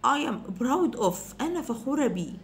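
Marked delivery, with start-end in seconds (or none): 0.1-1.4 I am proud of said slowly, proud stressed; walk through each word; slow model. Shown as a demonstration. Teacher modelling a sentence slowly for students. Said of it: "teacher models a sentence".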